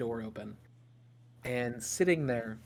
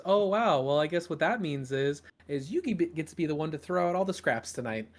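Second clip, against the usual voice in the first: higher, louder playful mom; teasing mother; 4 semitones higher, 5 dB louder than usual. Acted. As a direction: tease with a grin.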